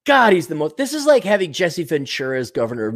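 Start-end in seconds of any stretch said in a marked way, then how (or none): none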